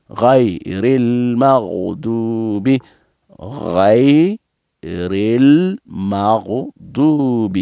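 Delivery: teacher leading a repeat-after-me recitation; recitation practice. Shown as a demonstration. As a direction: draw out the long syllables for students to follow. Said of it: "Donc, allons ensemble".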